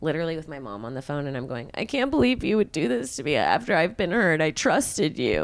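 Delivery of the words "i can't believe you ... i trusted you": fake hurt. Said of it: "play the victim on purpose".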